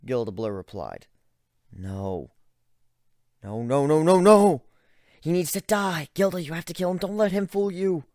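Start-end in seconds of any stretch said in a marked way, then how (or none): 1.7-8.0 higher, louder desperate protest; frantic shouting. Acted. Narrator frantically urging Gilda to kill Ivan.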